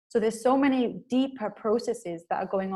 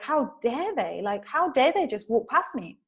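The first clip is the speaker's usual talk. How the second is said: mildly indignant, pitch rising on the outrage; mock affronted complaint; annoyed; 4 semitones higher, slower than usual. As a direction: act out taking offence. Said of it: "you're feeling quite annoyed".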